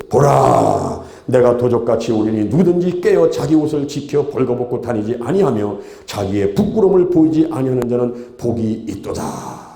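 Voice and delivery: solemn declaimed Bible verse; scripture reading. Real, not acted. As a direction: read it out formally, drawing out the ending. Reads scripture aloud. (엄숙하게 낭독하는 성경 말씀)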